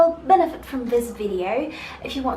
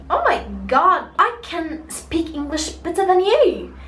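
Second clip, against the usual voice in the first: exclaimed inner thought, rising higher; retold indignant one-upping; mock appalled; 3 semitones higher, 3 dB louder than usual. Learner silently judging the translator's bad English, appalled.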